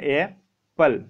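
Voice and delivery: एप्पल drawn out very slowly, sound by sound; slow spelled-out apple. Shown as a demonstration. Teacher to students, showing how एप्पल starts, very slow. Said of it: "एप्पल जब बोलते हैं तो कैसे लिखते हैं?".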